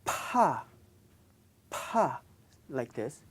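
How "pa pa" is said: "pa" with a strong, aspirated p; strong Korean p. Shown as a demonstration. Teacher shows students the strong aspirated "pa". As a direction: push air out on "pa". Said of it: "strong P sound".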